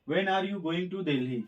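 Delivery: the whole sentence stretched very slowly; slow dictation. Shown as a demonstration. Teacher dictates the finished sentence to students, very slow. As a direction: read it out word by word for note-taking.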